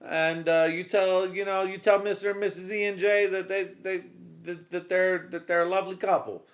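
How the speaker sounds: high, loud sweet wife voice; wife's voice. Retold or imitated. Wife sending greetings to friends, high and loud. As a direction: chirp it like a doting wife. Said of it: "She's like".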